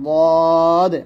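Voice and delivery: বদ said thick and loud, held; a heavy, full বদ; thick emphatic বদ; heavy dad. Shown as a demonstration. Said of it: "দদ হবে জিহ্বার গোড়ার কিনারা".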